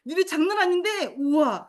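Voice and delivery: 숨 들이쉬고 높고 크게 거미다 외침; 미친 듯 신나게 과장된 놀람; crazy-lady surprise. Shown as a demonstration. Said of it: "단 미친 여자처럼 놀라는 거". (거미가 나오자 교사가 아이들에게, 미친 듯 과장된 놀람)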